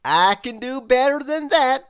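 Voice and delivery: loud proud storybook boast; Mister Impossible boasting. A narrator's reading. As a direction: brag it like nothing is beyond you. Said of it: "replied Mister Impossible".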